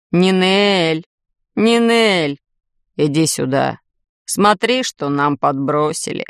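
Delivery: plaintive call. A narrator's reading. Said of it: "Жалобно позвал он".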